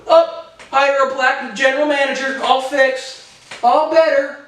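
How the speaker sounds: high, glib fix-it voice; breezy and dismissive, mocking him; mocking Mark Cuban. Vlogger mocking Cuban's quick fix, high and glib. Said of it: "Mark Cuban has a noose".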